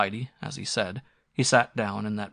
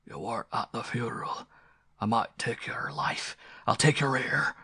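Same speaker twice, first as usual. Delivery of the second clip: stern ghostly voice; 2 semitones higher than usual. Acted. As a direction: intone it like a menacing apparition in a dream. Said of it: "awakened by a stern, deep voice saying".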